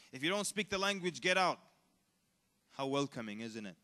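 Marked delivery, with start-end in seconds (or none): 0.1-1.6 imitated haughty order, louder ending; mock arrogant dismissal. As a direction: punch the last two words like an eviction. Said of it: "we get arrogant about it".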